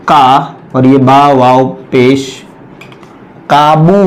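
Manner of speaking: slow spelling, then काबू said with a long "oo"; teacher sounding out a word while writing; spelled-out kabu. Shown as a demonstration. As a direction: build the word letter by letter into काबू. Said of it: "direct लफ्ज लिखता हूं मैं".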